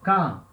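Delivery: "Quand" said as French "kan", K sound, nasal; French demo of "Quand"; French pronunciation. Shown as a demonstration. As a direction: model "Quand" with a single K. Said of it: "Quand quer dizer quando".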